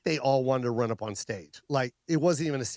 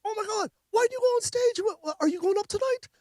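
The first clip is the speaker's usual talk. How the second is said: much higher, manic excited Robin voice; Robin Williams impression. Comic voicing Robin Williams, surprised he's not on, high and manic. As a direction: squeal it like a giddy Robin Williams. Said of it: "he was like".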